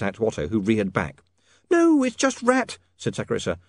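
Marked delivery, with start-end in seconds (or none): 1.7-3.6 put-on coaxing young woman. Sacharissa coaxes Otto to eat.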